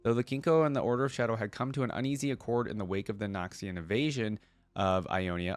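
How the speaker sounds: steady storybook reading voice; story narration. Acted. Reading Akali's lore to viewers in a story narration voice. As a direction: read the lore like an audiobook narrator.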